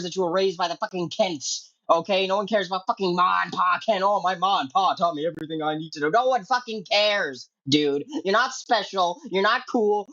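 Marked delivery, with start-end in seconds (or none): 4.0-6.1 lightly voiced mock Superman. Mocking Superman quote.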